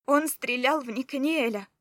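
loud alarmed cry; shouted. A narrator's reading. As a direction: shout it out in horror. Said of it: "крикнула я". (громкий испуганный крик)

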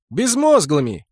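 loud, gleeful yell; shouted. Acted. Elf boy shouting a warning, loud. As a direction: call it out from the gate. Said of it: "крикнул эльфёнок".

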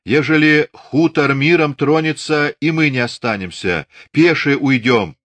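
high, loud cry over Darya; shouting out. A narrator's reading. Natalya shouts over Darya, high and loud. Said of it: "выкрикнула".

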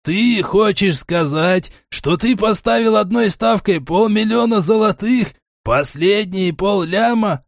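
high, drawn-out wail of disbelief; appalled disbelief. A narrator's reading. Gnome learns the money was staked, high and appalled. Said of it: "продолжал причитать гном".

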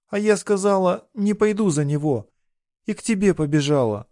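put-on a frightened girl pouring it out; distressed young girl. A narrator's reading. Runaway bride tells her lover why she fled, distressed.

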